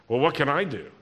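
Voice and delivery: exasperated, at a loss, throwing up hands; helpless shrug. Shown as a demonstration. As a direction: Elisha sounding helpless, wrong reading: exasperated shrug. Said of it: "I don't think that's the right way".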